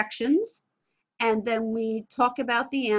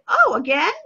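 mock surprise; 6 dB louder than usual. Shown as a demonstration. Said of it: "I say".

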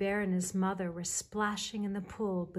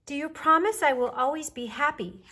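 put-on high, loud child's question; little bear cub; 8 semitones higher, 9 dB louder than usual. A narrator's reading. Baby Bear asks his mother about happiness, little cub voice. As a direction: ask earnestly, voice pitched up.

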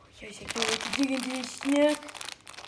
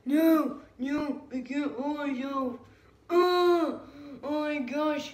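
excited shout; 3 semitones higher, much slower than usual. Pretend. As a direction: cry out, losing hold. Cannot hold himself, shouting.

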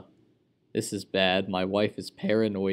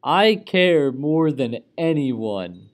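mock vow; 4 semitones higher, 9 dB louder, slower than usual. Bob the Careless.

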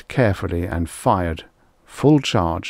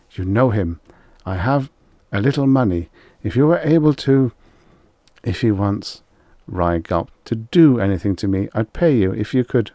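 nervous plea; 3 semitones higher, 4 dB louder than usual. Acted. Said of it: "plucked nervously".

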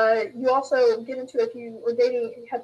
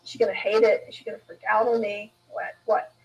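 worried inner voice; 2 semitones lower than usual. Retold or imitated. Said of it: "And I thought".

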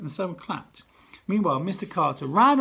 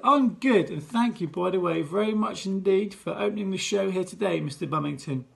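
showbiz host patter; 2 semitones higher than usual. Acted.

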